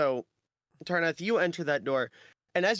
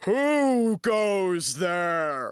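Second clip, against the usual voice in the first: booming, resounding, echoing voice; 4 semitones higher, 4 dB louder than usual. A game master voices an unseen presence as the room shakes, booming and echoing. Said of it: "you hear this booming, echoing voice".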